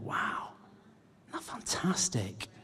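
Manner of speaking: whispered in awe, barely voiced; hushed whisper. Real, not acted. Preacher whispering his wonder to the congregation. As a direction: lean in and breathe it like a secret.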